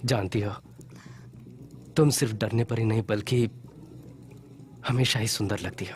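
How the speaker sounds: low, unhurried compliment; tender. Acted. Man flatters his injured companion, tender. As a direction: say it low and intimate, with pauses.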